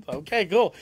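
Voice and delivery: amused, suppressed chuckle; stifled laugh. Real, not acted. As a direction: hold back a laugh while moving on. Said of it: "read his name and laugh at it".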